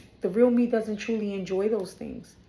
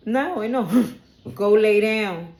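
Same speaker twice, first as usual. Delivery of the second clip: loud scolding; 3 semitones higher, 7 dB louder, slower than usual. Real, not acted. Reader scolding a pet that won't leave, loud command. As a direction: shoo the pet away at volume. Ordering pet away again.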